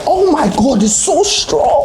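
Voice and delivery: very high, squeezed voice of effort; straining hard. Real, not acted. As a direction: push the words out while pulling with all your might. Struggling to tear tough wrapping.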